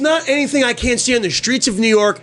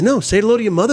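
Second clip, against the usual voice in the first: Wahlberg voice; 3 semitones higher, faster than usual. Retold or imitated. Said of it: "I can do that".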